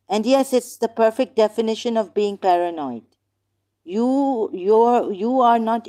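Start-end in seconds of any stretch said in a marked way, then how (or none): none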